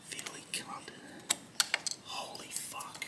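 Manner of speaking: whispered curses under the breath. Real, not acted. Fighting a fiddly terminal, cursing in a whisper. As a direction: hiss it to keep calm. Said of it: "I'm whispering so I don't".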